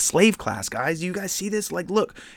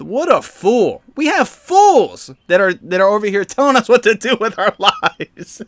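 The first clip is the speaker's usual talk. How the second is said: scornful; 7 semitones higher, 7 dB louder than usual. Real, not acted. Ranting at politicians.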